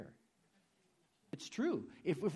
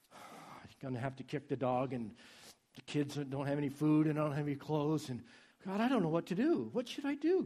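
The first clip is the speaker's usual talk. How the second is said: mock whiny prayer. Mocking a whiny helpless prayer.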